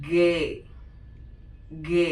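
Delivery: ഗേ as "gay", hard g; German letter G. Shown as a demonstration. Teacher showing German G. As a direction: say ഗേ with a hard g, not "jee". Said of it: "ജി നമ്മൾ pronounce ചെയ്യുന്നത്".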